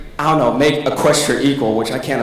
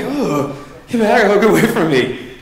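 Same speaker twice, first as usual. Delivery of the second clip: laughing disgust; 5 semitones higher, slower than usual. Retold or imitated. Creeped out reaction.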